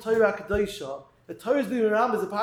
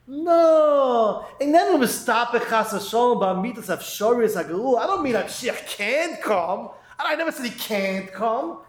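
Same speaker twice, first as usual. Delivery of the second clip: lightly voiced objector backpedalling; protesting doubter. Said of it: "He's gonna answer up and say".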